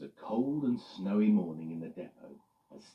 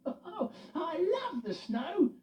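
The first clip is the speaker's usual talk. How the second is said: laughing; 4 dB louder, much slower than usual. Acted. Freddie voiced.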